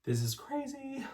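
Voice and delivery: high, voice cracking with disbelief; breathless high-pitched amazement; overwhelmed squeal. Real, not acted. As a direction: squeak it out, overcome. Overwhelmed opening her art package.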